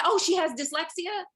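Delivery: a high, loud, startled question; startled surprise. Retold or imitated. Mother catching the psychologist's slip, high startled question. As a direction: catch the word and grab onto it. Mother hears the word dyslexia.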